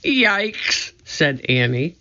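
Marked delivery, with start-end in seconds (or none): 0.0-0.9 high startled yikes; startled yelp. A narrator's reading. Annie startled by the mouse, high yelp. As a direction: jump at the sudden mouse.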